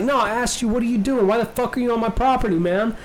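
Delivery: mock an indignant property owner; angry homeowner. Homeowner confronting kids on his lawn, indignant.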